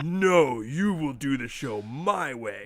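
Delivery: slow, drawn-out bossy imitation; mock bossy co-host. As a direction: imitate a bossy partner laying down the law, stretching the words. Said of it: "he is bossy".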